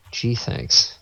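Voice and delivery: sarcastic. Retold or imitated. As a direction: thank them with dry sarcasm. Sarcastic thanks for belated directions.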